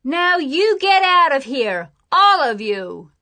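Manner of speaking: loud, high angry order; angry shout. A narrator's reading. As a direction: shout them off your land. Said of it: "he shouted".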